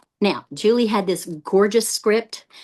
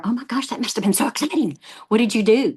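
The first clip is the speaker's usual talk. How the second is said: excited response; 4 semitones higher than usual. Shown as a demonstration.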